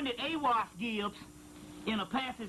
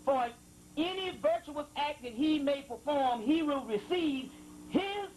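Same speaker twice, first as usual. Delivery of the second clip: raised, solemn reading voice; scripture reading; 2 semitones higher than usual. Acted. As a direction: intone it like holy text. Reading a sacred passage aloud.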